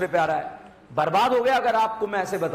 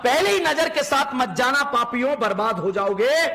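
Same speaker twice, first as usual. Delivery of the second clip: mock dire warning; 6 semitones higher, 6 dB louder than usual. Real, not acted. Mock warning called to students.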